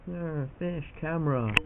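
slow, lightly voiced fish with a mock growl; silly fish voice. Kid voices the fish meeting his camera, slow mock growl. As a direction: play a goofy fish spotting the camera. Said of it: "The fish are like".

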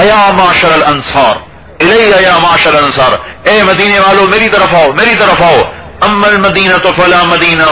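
rallying battle cry. Retold or imitated. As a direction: call out from the rock to rally the men. Bara calls Ansar from rock. (بلند آواز میں للکار)

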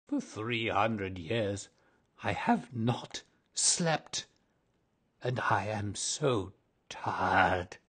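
slow, tired ghost lament; weary lament. Acted. Ghost telling Virginia how tired he is, slow. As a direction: let the weariness drag.

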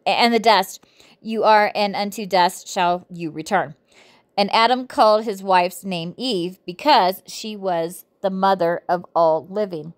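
measured, deliberate Bible reading; reading scripture aloud. Acted. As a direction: read the verses out phrase by phrase.

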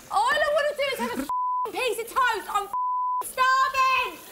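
real exasperation; frustrated rant. Real, not acted. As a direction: let the frustration spill over. Frustrated outburst about food.

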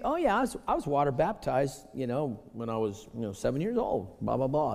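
complacent churchgoer. Retold or imitated. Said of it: "I've talked to people over the years".

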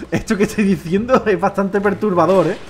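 slow, deliberate delivery; slow emphatic repeat. Real, not acted. Streamer repeating that his joke is disturbing, slow and emphatic. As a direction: spell it out slowly for effect. Repeats it slowly after laughing.

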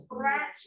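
Scratched repeated as one syllable with a rising end; careful pronunciation. Shown as a demonstration. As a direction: model Scratched for the class. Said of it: "it's hard to pronounce". (Scratched pronunciado como modelo)

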